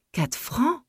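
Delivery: high, startled cry of disbelief; shocked outcry. A narrator's reading. Widow stunned by the well-digger's price, shocked high cry. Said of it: "Elle eut un sursaut".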